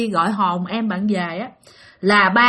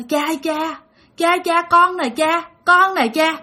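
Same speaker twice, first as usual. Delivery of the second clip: put-on raised pleading call of a dead child; child spirit calling; 5 semitones higher, slower than usual. Medium voicing the drowned child calling her father, pleading.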